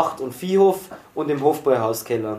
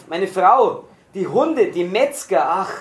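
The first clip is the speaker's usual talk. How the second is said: raised, despairing cry; anguished roar; 3 semitones higher, slower than usual. A narrator's reading. Prisoner mourning his wife curses the butchers, crying out in anguish. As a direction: cry out in grief and rage. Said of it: "Dann brüllte er wieder furchtbar auf".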